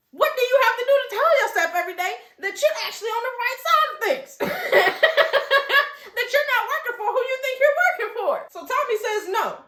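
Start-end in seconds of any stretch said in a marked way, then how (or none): 0.1-8.5 high, fast, laughing taunt; mocking laugh. Sheriff mocking Tommy's delusion, laughing. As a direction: taunt him through laughter.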